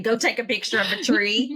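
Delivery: plain, direct order without softening; blunt. Retold or imitated. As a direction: give it as a matter-of-fact instruction. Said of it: "instead of saying".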